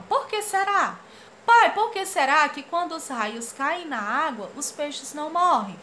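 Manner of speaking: put-on high girl voice. Girl asks father.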